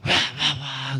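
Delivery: imitated devil cry. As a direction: imitate a devil crying out, half-hearted.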